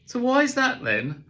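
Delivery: put-on high, loud, slow child's question. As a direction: ask it like a persistent little girl. Daughter asks again.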